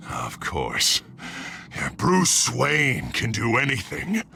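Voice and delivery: sinister alter ego. Acted. Split personality mocking his rival, low cold sneer. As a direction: drop low and sneer like a second self.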